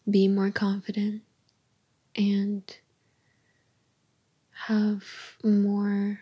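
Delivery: tender unvoiced whisper to a partner. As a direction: breathe the words close to the mic.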